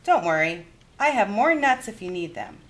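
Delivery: put-on kindly old granny offering a game; Baba Bryna's voice.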